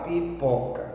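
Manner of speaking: pipoca slowed down, pi held apart from poca; said slowly. Shown as a demonstration. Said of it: "Então você fala devagar". (pipoca devagar, destacando o PO)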